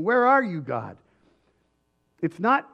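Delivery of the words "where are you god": loud, angry demand flung upward; mock furious cry to heaven; defiant shout at God. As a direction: shake a fist and yell it at God. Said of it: "with a fist in our hand saying".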